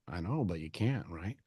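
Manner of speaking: quiet steady comfort; calm and soothing. Retold or imitated. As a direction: talk them down without raising your voice. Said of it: "I'm like".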